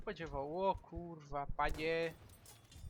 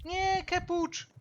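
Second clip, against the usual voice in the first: high slow wail of despair; despairing shout; 11 semitones higher, 7 dB louder, slower than usual. Real, not acted. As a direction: cry out in dismay. Shout at being hit.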